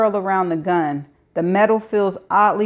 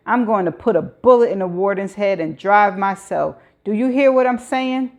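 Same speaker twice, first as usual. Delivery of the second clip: menacing. Acted. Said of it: "trying to sound as menacing as possible".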